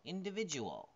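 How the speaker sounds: "Individual" starting high, then falling away; shifted word stress. Shown as a demonstration. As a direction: pitch "Individual" high early and let it drop. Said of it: "There's a different stress for these".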